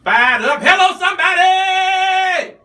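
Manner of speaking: loud, high rally shout; fired up shout. Real, not acted. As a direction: rouse the room. Host firing up listeners.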